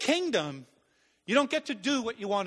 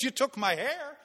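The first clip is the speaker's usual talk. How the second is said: higher, incredulous retold protest; indignant protest; 4 semitones higher than usual. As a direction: protest as if cheated. Retold protest at army rejection.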